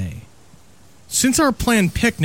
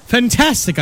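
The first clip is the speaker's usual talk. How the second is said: excited; 8 semitones higher than usual. A narrator's reading. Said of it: "I turned excitedly".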